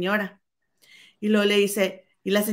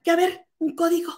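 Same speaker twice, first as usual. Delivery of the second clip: higher, irritated imitation of the lady; raised, irritated voice demanding the code; mock angry demand; 8 semitones higher than usual. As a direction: snap it like an annoyed customer. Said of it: "bien enojada le marca".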